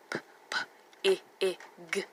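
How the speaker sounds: "P, p, I, I, g" in separate sounds, I as short ih; sounding out. Shown as a demonstration. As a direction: split pig into puffed "P", short "I", final "g". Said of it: "is the short I".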